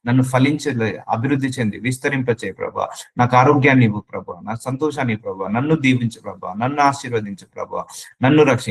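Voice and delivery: sample prayer. Shown as a demonstration. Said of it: "ఇవన్నీ బైబిల్లో ఉన్న వాక్యాలు".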